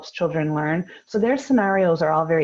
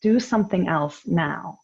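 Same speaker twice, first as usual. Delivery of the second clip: calm but firm; 2 semitones higher than usual. Shown as a demonstration. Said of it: "calmly but firmly".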